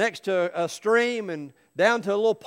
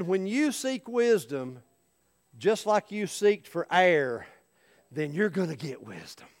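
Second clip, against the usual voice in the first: wise monk's lesson. Acted. Wise monk delivers the lesson.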